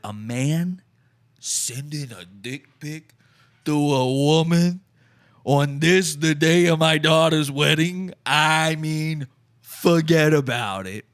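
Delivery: lightly put-on New York wiseguy accent. Ranting about the dick pic in a mild New York accent. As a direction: play it like a New York mob dad. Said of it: "I'm a New York guy".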